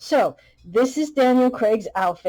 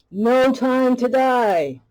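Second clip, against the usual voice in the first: ominous title drop; 5 semitones higher, 5 dB louder, much slower than usual. Acted. Dramatic title drop in banter.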